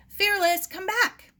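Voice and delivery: high, loud call to a runaway dog. A narrator's reading. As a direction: shout across the sand. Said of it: "she called".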